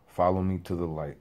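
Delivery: calm, understated divine voice; voice of God. Retold or imitated. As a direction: repeat the mysterious words evenly, lightly imitated. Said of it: "It said it in that specific tone".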